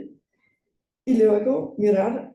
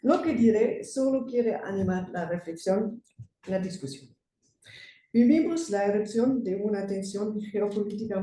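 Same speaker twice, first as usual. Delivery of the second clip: German accent. Real, not acted. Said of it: "Soy alemana, perdonen mi español".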